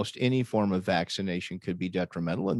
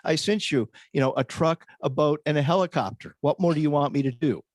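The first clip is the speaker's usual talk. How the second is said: exasperated God; 5 semitones higher than usual. Retold or imitated. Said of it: "And he goes".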